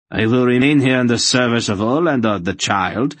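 spat defiance. A narrator's reading. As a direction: refuse with heated conviction. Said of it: "Relg spat".

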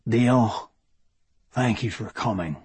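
put-on gentle Welsh-accented thanks. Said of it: "his unhurried voice carrying a Welsh accent".

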